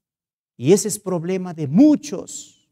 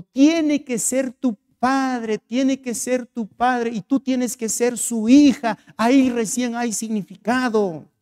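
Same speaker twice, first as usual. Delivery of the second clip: higher, drawn-out insistence; emphatic insistence; 5 semitones higher than usual. Retold or imitated. Pastor tells the hotel owner God must be her father, insistent. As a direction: press the point slowly, pitched up.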